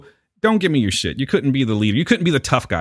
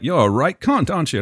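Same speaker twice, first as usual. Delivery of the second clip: cheeky English insult, lightly raised; English accent; 4 semitones higher than usual. Acted. Imagined Englishman insulting an American, English accent. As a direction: toss it out as a cheerful Englishman. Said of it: "They always get the English accent".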